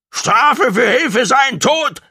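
high, slow, screeched creature voice; screaming. A narrator's reading. Gong condemns the helper to death, screaming. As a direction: scream it out high, drawing out the words. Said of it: "schrie Gong".

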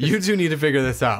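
quick, lightly acted snark; snarky Robert Downey Junior. Tony urging Bruce to talk it out, lightly snarky. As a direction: toss it off as a snarky order. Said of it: "with his snarkiness going".

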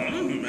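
soft high hum in place of an answer; Yoda's pondering hum. Shown as a demonstration. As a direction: hum a quiet, noncommittal answer. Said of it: "I was just gonna go".

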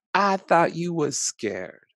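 put-on high, slow little kid teasing; a small child marvelling at grandpa. Grandchild teasing Big Papa after the dance, high childlike voice.

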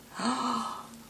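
a high gasp of surprise; delighted gasp. Real, not acted. Spotting a new crochet piece, delighted gasp. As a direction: gasp as you spot it.

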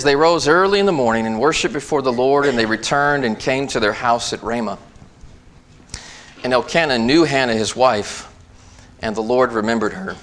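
scripture reading. Acted. Pastor reading Hannah's story to the church, proclaiming. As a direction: proclaim the verses to the congregation.

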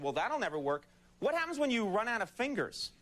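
lightly done politician impression, rising on the punchline; a hint of a puzzled, folksy candidate; George W. Bush. Comedian mocking a hand count, in a rough Bush impression. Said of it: "That's all I got with my Bush impression".

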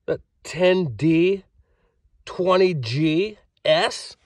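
high, slow dawning delight; dawning joy. Acted. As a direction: let the joy sink in. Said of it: "dawning joy, reenactment".

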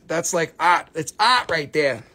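put-on light Boston accent, R dropped. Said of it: "that's how they say it in Boston".

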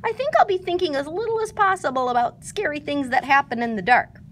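mildly trembling Piglet. A narrator's reading. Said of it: "trying to keep his ears from trembling".

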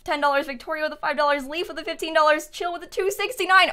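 breathless from reading fast; running out of air mid-list; out of breath. Real, not acted. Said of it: "I'm out of breath".

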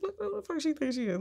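high, incredulous retold jab; mock outrage. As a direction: imitate a scornful aside about the girl. Retold scolding in laundry room.

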